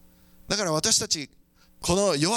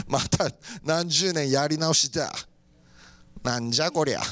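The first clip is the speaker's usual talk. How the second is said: low, grumbling exasperation; mock dismay; 7 semitones lower than usual. Someone fallen off a cliff facing decades of redoing, mock dismay. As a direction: groan it like someone back at square one. Acts out dismay after falling.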